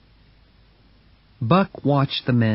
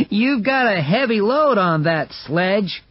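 onlooker man; 9 semitones higher than usual. Acted. Onlooker voiced in story.

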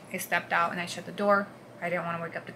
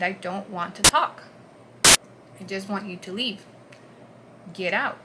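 said it loud; 5 dB louder than usual. Retold or imitated. Wife telling husband to leave, loud and firm. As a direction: shut him down, firm and loud. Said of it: "And I said it loud".

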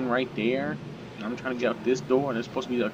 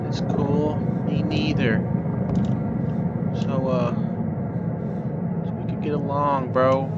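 slightly raised, friendly sweet-talk to the monster; smooth talk; 2 semitones higher than usual. Real, not acted. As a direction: charm him so he won't attack. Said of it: "my smooth talk over there".

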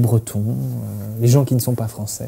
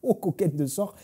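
lightly voiced old southern grandfather; a hint of a gruff old man from the Midi; grand-père. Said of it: "je fais mon grand-père". (voix de grand-père du Midi, à peine marquée)

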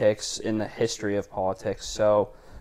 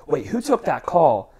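mildly projected, higher questioning call; projecting voice; 4 semitones higher, 4 dB louder than usual. Retold or imitated. Legislative director asks who took the call, mildly projected voice. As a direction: imitate a boss calling across the office. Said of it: "has a very projective voice".

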